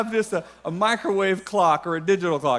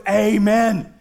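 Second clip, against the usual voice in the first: lightly acted church enthusiast, punching each phrase; a touch of rousing amen-corner zeal; fervent pastor-minded believer; 3 dB louder than usual. Preacher voicing those with the pastor lens, mock fervour. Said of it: "everyone who's looking through this lens goes".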